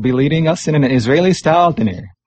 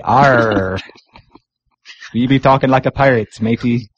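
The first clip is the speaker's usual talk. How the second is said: playful pirate growl with an Arr; hammed-up pirate talk; 2 semitones lower than usual. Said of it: "International Talk Like a Pirate Day".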